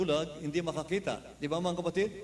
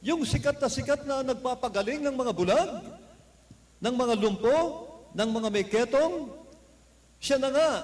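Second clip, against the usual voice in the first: retold shout; 4 semitones higher than usual. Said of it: "sumigaw si Bartimeo".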